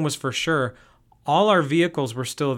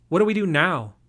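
upset; 4 semitones higher, 4 dB louder than usual. Acted. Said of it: "She was sounding very upset".

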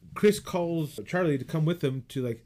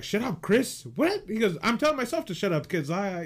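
high, quick mock-flustered retort; flustered, stumbling; 7 semitones higher than usual. Film fan retelling a lovestruck man's slip, flustered and high. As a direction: imitate someone stumbling nervously over his words. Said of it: "He's, like, stumbling through the word".

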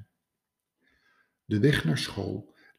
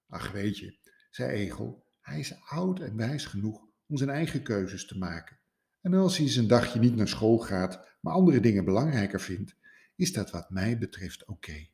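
easygoing calm. Acted. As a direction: wave it off gently. Egel calm reply.

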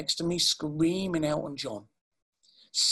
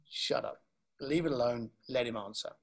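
whisper; 5 semitones lower, 6 dB quieter than usual. Retold or imitated. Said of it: "inner voice telling self to wait".

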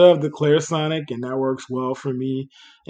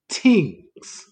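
Jamaican-style tings; 3 semitones higher than usual. Pretend. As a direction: drop the h, say tings with a plain t. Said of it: "I'm only calling them favorite tings because I know it annoys people".

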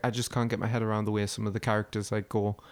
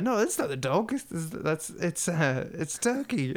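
high-pitched mock protest; higher, stumbling insistence, acted out; flustered denial; 5 semitones higher, slower than usual. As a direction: imitate someone bluffing in a higher voice. Acting out sitcom character's flustered denial.

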